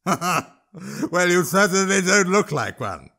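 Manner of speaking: a troll delighting in the insult; high jeering troll voice; mocking troll. Troll mocks the boy.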